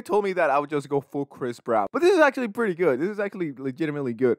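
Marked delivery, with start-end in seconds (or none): 1.9-4.4 excited. Real, not acted.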